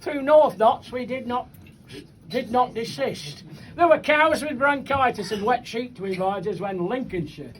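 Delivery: bouncing rhymed verse, line by line; comic poem recitation. Acted. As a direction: recite it to a live crowd.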